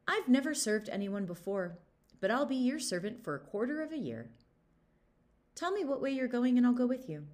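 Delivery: the bold weasel pledging himself; eager weasel. Acted. Weasel offers to serve Gilly.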